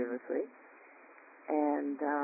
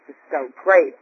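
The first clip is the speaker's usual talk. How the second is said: It's so great shouted out, much louder; loud joyful burst; 11 dB louder than usual. Real, not acted. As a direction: blurt great out in delight. Repeats it louder.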